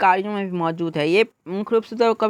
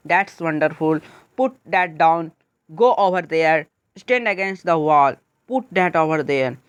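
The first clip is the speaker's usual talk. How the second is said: deliberate model phrases, dropping down on "wonderful", "down", "there", "wall"; falling intonation; 3 semitones lower, much slower than usual. Shown as a demonstration. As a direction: begin each phrase firmly and let the pitch fall to its last word. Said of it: "आपका downward intonation कहलाता है".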